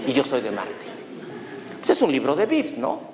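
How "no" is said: normal talking voice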